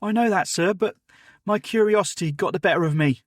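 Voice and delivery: put-on a keen boy apologising to his elder; eager servant boy Jim.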